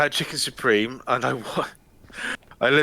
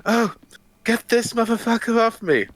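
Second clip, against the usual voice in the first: much higher, strained, protesting; Peter O'Toole voice; 12 semitones higher, 4 dB louder than usual. Retold or imitated. O'Toole in a headlock, yelling to get free, high and strained. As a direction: squeal it out like a man stuck in a headlock. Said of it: "he's like".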